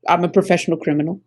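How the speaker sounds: quick, matter-of-fact declaration; concise. Shown as a demonstration. Showing how to admit a criminal profession, quick and concise. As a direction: say it briskly in one go. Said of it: "it's concise".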